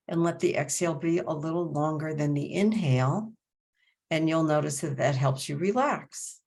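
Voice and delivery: measured breathing cues, long silences between phrases; guided meditation. Acted. Teacher guiding breath along the spine, measured meditation voice.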